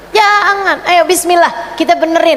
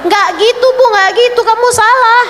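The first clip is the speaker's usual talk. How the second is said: a firm, raised scold; sharp correction; 8 semitones higher than usual. Acted. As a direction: cut her off: no, not like that. Preacher correcting a wrong gulp.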